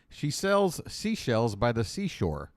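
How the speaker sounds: slow deliberate enunciation; careful tongue twister. Shown as a demonstration. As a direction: articulate every sibilant carefully. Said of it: "Well, you said seashell, just singular".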